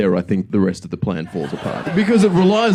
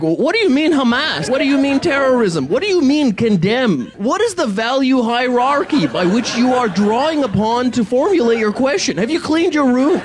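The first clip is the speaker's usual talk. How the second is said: much higher, pedantic mock lecturer voice; Jordan Peterson; 13 semitones higher than usual. Comedian mocking how Jordan Peterson answers, high pedantic voice. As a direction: nitpick every word like a smug professor. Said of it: "you end up being Jordan Peterson".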